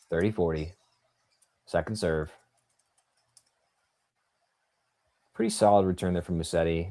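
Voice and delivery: restrained, measured tennis commentary; live play-by-play. Real, not acted. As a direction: follow the point stroke by stroke.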